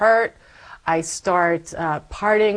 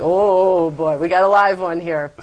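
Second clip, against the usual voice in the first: amused priest; 4 dB louder than usual. Retold or imitated. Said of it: "And he said, like".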